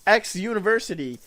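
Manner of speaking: mother yelling at the agent, loud and high; furious rant. Retold or imitated. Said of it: "She's like".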